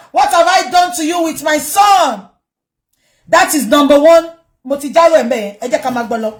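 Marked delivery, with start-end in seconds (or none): 0.1-2.3 mock plea. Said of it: "to tell you that she called Baba".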